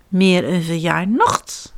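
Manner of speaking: slow, mildly yawning papa. Acted. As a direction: say it through a lazy yawn. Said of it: "zegt papa gapend". (papa beer, gapend)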